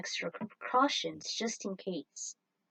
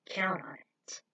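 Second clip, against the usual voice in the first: whispered promise; slower than usual. Acted. Parting promise whispered in dialogue.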